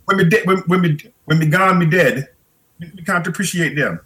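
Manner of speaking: put-on Jamaican accent. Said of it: "as she would say in her Jamaican accent".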